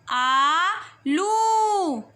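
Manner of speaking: आलू called out with a long slow ऊ; loud, stretched आलू. Shown as a demonstration. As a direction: call out आलू for the class to echo. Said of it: "जोर से बोलेंगे".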